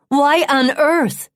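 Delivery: high, drawn-out, stricken question; distraught disbelief. A narrator's reading. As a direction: plead slowly for an explanation. Upset wife demands an explanation.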